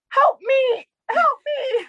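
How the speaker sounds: tiny high squeaky plea; duck pleading. Retold or imitated. The captured duck pleading with the sister, squeaky and high. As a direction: give the duck a pitiful high little voice. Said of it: "the duck is blinking at my sister".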